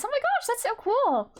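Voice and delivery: high, delighted gush; light up at the news; excited. Real, not acted. Streamer gushing high at a viewer's British accent news. Reacting to chat voice acting.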